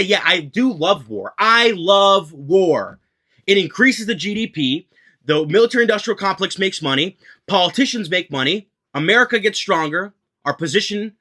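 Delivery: a mock warmonger proudly declaring his love of war; bold war hawk. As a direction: say it with your chest, a mock hawk owning it. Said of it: "say it with your chest".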